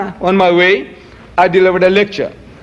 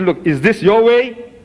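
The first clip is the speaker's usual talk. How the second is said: higher-pitched, insistent retold reproach; pressing rhetorical questions, pitched up; retold challenge; 4 semitones higher than usual. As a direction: confront the missionary with pointed questions. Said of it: "You see, you're protesting. I said".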